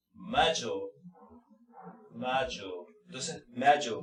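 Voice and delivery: "mayo" with the middle consonant like a Spanish Y; D as Y sound. Shown as a demonstration. Teacher showing the D said like a Y. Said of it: "se pronuncia como una Y".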